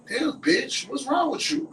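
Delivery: high-pitched mock challenge to a friend; brash confrontation. Ghetto friend greets her coach friend, brash and high.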